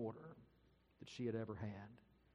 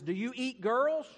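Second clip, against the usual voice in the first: very high, loud anxious question; hammed-up frightened girl's squeal of a question; alarmed girl; 11 semitones higher, 12 dB louder than usual. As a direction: blurt it out high and loud, rising sharply. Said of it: "She looks at the great lion and she says".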